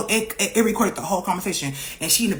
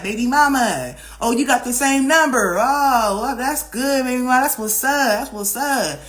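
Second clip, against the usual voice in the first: mock ex taunting; 5 semitones higher than usual. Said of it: "he was like".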